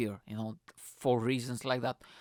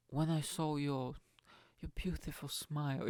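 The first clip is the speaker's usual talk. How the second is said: mock Hallmark romance; 4 dB quieter than usual. Man sweet-talking a crazy date for fun, hammed-up romance. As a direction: lay on the cheesy tenderness, haltingly. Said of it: "I was just going proper Hallmark on her".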